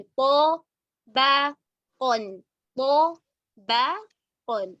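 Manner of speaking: तबक़न with heavy ta and qaf, thin ba, slow; thin ba between heavies. Shown as a demonstration. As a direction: keep the ब of तबक़न light. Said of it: "अलग से भी practice". (बा बारीक, बाकी मोटे)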